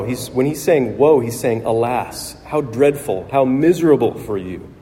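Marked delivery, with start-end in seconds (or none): 1.6-4.7 compassionate sadness. Retold or imitated. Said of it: "Woe is a word of compassionate sadness".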